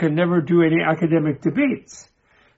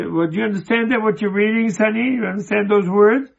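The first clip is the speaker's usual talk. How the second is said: higher-pitched, light questioning voice; lightly voiced cleaning lady; 5 semitones higher than usual. Cleaning lady quizzes the reading professor, lightly acted higher voice. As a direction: imitate her probing question, pitched up. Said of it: "And then she said".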